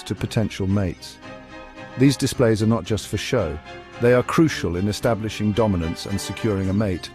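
calm, measured documentary narrator; nature documentary. A narrator's reading. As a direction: narrate over wildlife footage, steady.

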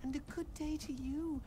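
giggly. A narrator's reading. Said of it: "Maris giggled".

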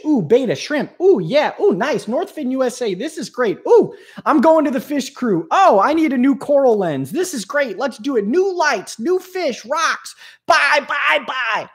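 high giddy oohs over every new item; excited shopping. Retold or imitated. Hobbyist gushing over new fish gear, squealing with excitement. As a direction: gush like a kid in a fish store.

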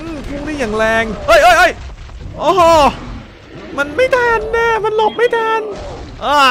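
very high, loud panicked shriek; real gamer panic; shrieking alarm. Real, not acted. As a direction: yelp as the boss charges. Boss charges at the team.

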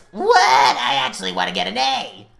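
loud, incredulous refusal; outburst. Acted. Classmate rejecting Chris as partner, loud outburst. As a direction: burst out loudly on the first word.

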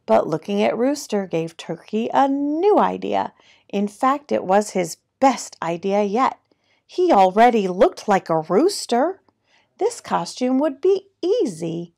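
animated picture-book narration, key words punched; lively storytime reading with swooping pitch; reading to children. A narrator's reading. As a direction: read it like a playful storyteller.

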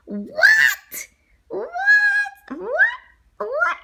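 high, loud cry of disbelief; shocked shout. Acted. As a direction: yell it in outrage. Shocked at being called wacky.

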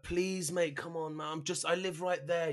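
high, soft plea; pleading. Retold or imitated. Suspect asking the policeman to let him go, pleading. Pleading with officer during search.

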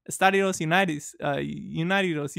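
halting Spanish, slowing on the repeat; rough on-the-spot Spanish. Retold or imitated.

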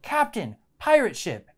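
mildly called out, pitch jumping up then falling; half-hearted storyteller's yell; mock crew yell. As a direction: lightly act out a crew's alarm call, without real volume. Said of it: "and they yelled".

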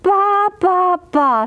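high bleating sheep; sheep baa. Acted. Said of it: "said the fat red hen".

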